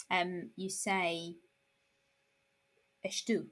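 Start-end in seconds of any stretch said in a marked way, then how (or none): 3.1-3.5 estou with the opening E sounded, esh-TOO; unreduced "estou", esh-too; full citation form. Shown as a demonstration. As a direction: say "estou" with its first vowel intact. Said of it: "you don't say".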